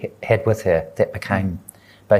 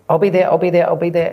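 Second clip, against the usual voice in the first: raised, higher calls; mother calling louder into the dark; 8 semitones higher, 4 dB louder, faster than usual. Retold or imitated. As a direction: call back urgently to the children. Mother calling to her children.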